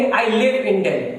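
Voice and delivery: "live" said short, like give, words spaced out slowly; slowly, clearly, short i in "live"; teacher's slow demo, live as in give; slow model sentence. Shown as a demonstration. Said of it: "इसको हम पढ़ेंगे".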